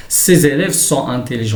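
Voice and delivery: slow, careful sentence reading; slow teacher's model sentence; example read-out. Shown as a demonstration. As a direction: read it out slowly for learners. Teacher reads example sentence aloud.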